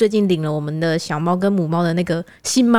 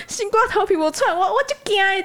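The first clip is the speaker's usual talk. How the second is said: higher mock Taiwanese of the uncle; uncle's Taiwanese; 12 semitones higher than usual. The uncle says he is frightened, higher mock Taiwanese. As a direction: repeat the uncle's fearful Taiwanese. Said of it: "他就说".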